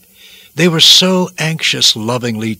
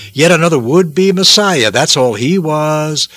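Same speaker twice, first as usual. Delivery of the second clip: dismissive scorn; 4 semitones higher, 3 dB louder than usual. Acted. Scornful onlookers voiced in sermon.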